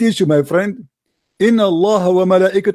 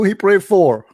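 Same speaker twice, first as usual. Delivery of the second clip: "for" leaned on as the correction; stress on FOR. Shown as a demonstration. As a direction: land on "for" with a drawn-out fall. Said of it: "There is a huge difference".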